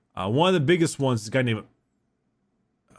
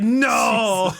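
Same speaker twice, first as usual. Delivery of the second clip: mock wail; 9 semitones higher, 4 dB louder than usual. Italian wailing at burning pizza.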